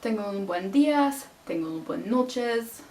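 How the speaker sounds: choppy kitchen Spanish with an English accent; butchered Spanish. Shown as a demonstration. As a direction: rattle off broken restaurant Spanish. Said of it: "I just completely butchered the language".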